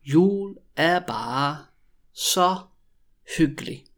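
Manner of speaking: drawn-out words with clear gaps; very slow, word by word. Shown as a demonstration. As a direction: dictate it slowly to beginners. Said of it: "when I say it really slowly".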